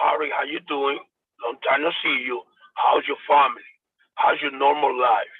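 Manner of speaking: relaxed, sincere catching up; the right way, an easy genuine greeting; genuine friendly check-in. Shown as a demonstration. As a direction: ask like you truly care about them. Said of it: "I have to go".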